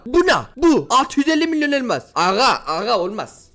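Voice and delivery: normal talking voice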